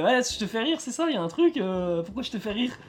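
menacing gangster. Retold or imitated. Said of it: "t'as Joe Pesci qui fait".

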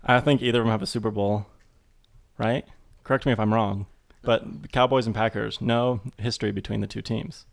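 deadpan, feigned ignorance; sarcastic. Real, not acted. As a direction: state it earnestly with dry irony. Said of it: "It's freaking sarcastic".

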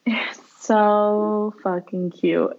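slow, breathless whispered gush. Real, not acted. Fan gushing to her cohost about the couple, slow whispered gush. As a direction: whisper it like you can't handle the cuteness.

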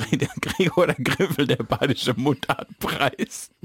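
slow, drawn-out Badisch prize title; mock Badisch announcement. Host announcing a made-up dialect prize, in mock Badisch. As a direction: announce it slowly in playful Badisch.

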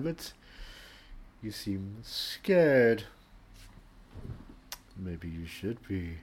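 lightly menacing, slow and low at the end; mock demon voice. Teasing his silent cohost, lightly menacing. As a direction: tease menace, not quite scary. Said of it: "It's my demon voice".

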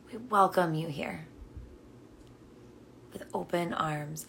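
heartfelt invocation, phrase by phrase; prayer. Real, not acted. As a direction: pray gently, letting each request settle. Leads an opening prayer.

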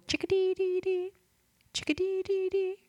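high-pitched attempt at a Chris Hemsworth Australian accent; mock Australian accent. Imitating Chris Hemsworth's Australian accent, high-pitched and hammed up. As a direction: sing out the bird name in a bad Australian accent. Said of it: "sound so cool with his accent".

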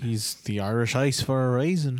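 lightly put-on Liverpool accent; a hint of imitated Liverpudlian; a singer. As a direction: slip into a mock Scouse accent. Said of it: "Why did I say this in a singer's accent".

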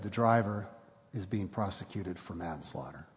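softly, gently breaking the news; a hushed, careful report; quiet voice. A narrator's reading. Officer telling the widow about the driver, quietly. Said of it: "In a quiet voice".

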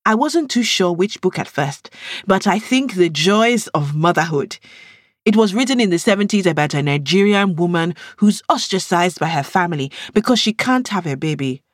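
lightly voiced earnest book club member; Yemisi's earnest voice. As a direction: make the case plainly and seriously. Yemisi pitches her book.

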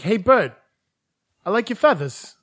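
put-on voice chatting up a bird; imitating bird lover. Host mimics the producer greeting a bird, high-pitched. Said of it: "she's like".

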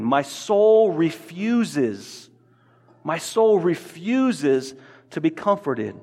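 slow, heavy reading of the lament; slow scripture reading. Acted. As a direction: let each word of the lament weigh. Reads psalm slowly.

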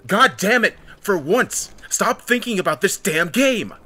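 loud, high angry outburst; snapped back. A narrator's reading. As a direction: snap back in exasperated fury. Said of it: "I snapped back at her".

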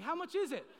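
mock incredulous. Ring buyer asking the jeweler the price, mock incredulous. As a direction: jump up in pitch as the imitated buyer.

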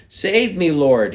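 sinking Peter shouting to the Lord, a loud high plea. Acted. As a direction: yell out for rescue. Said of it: "he shouted".

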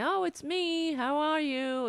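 high, singsong polite reply; friend answering neighbor. Retold or imitated. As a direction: imitate a friend greeting an elderly neighbor. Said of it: "And my friend would say".

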